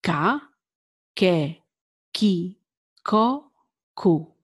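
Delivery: Ka, ke, ki, ko, ku with a hard K, one syllable at a time; crisp teacher demo; Italian K syllables. Shown as a demonstration. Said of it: "K sound".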